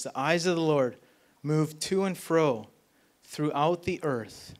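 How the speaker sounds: slow, deliberate reading of the verse; scripture reading. Acted. Pastor reading Second Chronicles to the congregation, slow and deliberate. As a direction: read it out with weight.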